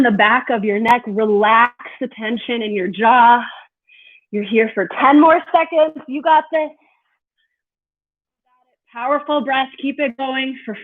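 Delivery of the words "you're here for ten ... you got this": encouraging. Real, not acted. Cheering through the last seconds.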